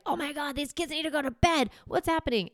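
high, frazzled mock exasperation; a stressed mom losing patience at bedtime; exasperated parent. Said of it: "you'll find yourself angry in the moment and be like".

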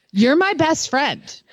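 mock sobbing plea; fake crying. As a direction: whimper it like you're about to cry. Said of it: "being able to cry on demand".

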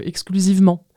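ordinary talk

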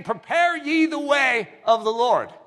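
slow, ringing prophet's cry; a touch of a prophet crying out; proclaiming prophet. Retold or imitated. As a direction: call it out like a voice in the wilderness. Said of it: "crying in the wilderness".

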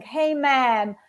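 mild mock surfer-dude hello; casual American dude. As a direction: toss it off like a laid-back American guy. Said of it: "there is someone saying".

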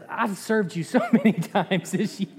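donkey laughing. Acted. The talking donkey complains.

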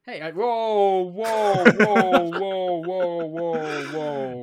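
loud, repeated defensive whoa; loud protest. Real, not acted. Protesting a friend's jokey accusation, loud repeated whoas. Protesting being called sexist.

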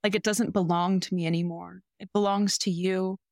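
a touch of tender earnest recitation; reciting love declaration. Retold or imitated. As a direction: read the confession as if meaning it. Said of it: "and I quote".

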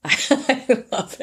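high, slow gushing laugh; drawn-out delighted gush. Real, not acted. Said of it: "said twice, second drawn out".

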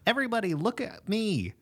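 put-on high-pitched, childlike plea for attention; childlike attention-seeker. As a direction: act like a kid wanting everyone watching. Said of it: "that's a very childlike thing to want".

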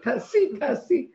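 loud repeated urging shout; shouting like mad. Retold or imitated. Urging a woman to act, shouting like a madwoman. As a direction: bark the command over and over. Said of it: "אני צועקת כמו מטורפת".

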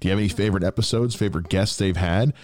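upbeat, evenly projected host announcement; podcast promo read. Acted. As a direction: address the listeners like a host. Recorded listener call-out read.

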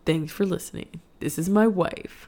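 mock host sign-off, slowing at the end; Ian Donovan impression. Wife imitating husband's sign-off, slowing surfer-dude caricature. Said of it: "You make me sound like".

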